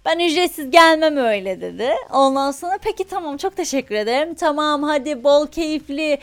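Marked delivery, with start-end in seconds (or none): 0.0-1.6 Roman şivesi taklidi. Retold or imitated. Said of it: "roman şivesiyle falan konuşuyor". 2.8-6.2 Roman şivesiyle samimi veda. Retold or imitated. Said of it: "roman şivesiyle falan konuşuyor".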